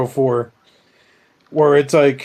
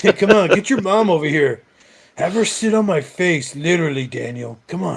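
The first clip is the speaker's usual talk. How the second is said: raised, coaxing creepy voice; sweet creepy coaxing; 3 semitones higher than usual. Acted. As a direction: wheedle the kid closer. Creepy toy coaxing a kid.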